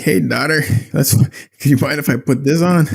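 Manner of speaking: mock parent asking. Parent asks daughter to allow a scary movie, mock casual asking. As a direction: pipe up lightly, imitating a parent.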